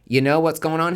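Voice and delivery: the universe calling everyone out. Acted. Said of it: "The universe is being like".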